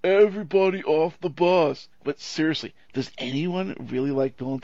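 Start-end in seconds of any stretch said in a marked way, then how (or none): 0.0-1.9 slow, loud stoner voice, pitched up; booming, drawn-out stoner impersonation; Keanu Reeves. Acted. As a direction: drag it out like a stoned dude calling out. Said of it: "in his most stoner voice".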